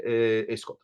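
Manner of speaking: Italian cook's hesitant call; lightly imitated Italian accent; horrible Italian accent. Quoting the Italian dudes' cooking talk, mock Italian accent. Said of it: "Horrible Italian accent".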